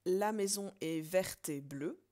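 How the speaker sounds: loud and slow, each syllable set apart; slow, loud syllable count. Shown as a demonstration. Teacher scanning an example line loudly for the class. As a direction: count the beats out loud, deliberately. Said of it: "autre exemple".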